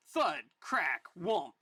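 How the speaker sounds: punched-out impact noises, falling pitch; comic sound effects. Acted. Reader voicing blows from a war comic, sound effects. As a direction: hit each impact word separately.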